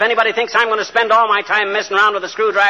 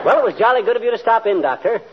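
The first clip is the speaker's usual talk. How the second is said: brisk hammed-up English host; mock English gent; 4 semitones higher than usual. Greeting the doctor as a mock English host. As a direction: chirp it like a stage Englishman. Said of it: "yammering like a stock company Englishman".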